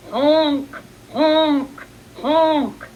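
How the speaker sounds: mimicked honks. Father duck imitates honking.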